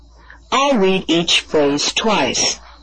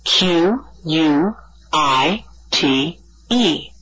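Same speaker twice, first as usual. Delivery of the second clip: spelled out; slower than usual. Shown as a demonstration. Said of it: "how the word quite is spelled".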